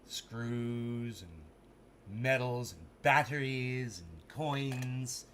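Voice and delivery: low, drawn-out listing; slow, grand presenter read; mock showcase voice. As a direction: stretch each item like a mock advert.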